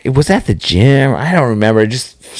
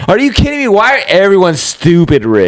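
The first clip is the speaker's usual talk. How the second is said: incredulous rant; 7 semitones higher than usual. Retold or imitated. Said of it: "I was like".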